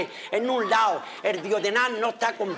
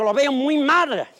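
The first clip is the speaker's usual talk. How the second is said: grave doctor; 3 semitones higher, 5 dB louder, slower than usual. Acted. Doctor voiced in joke.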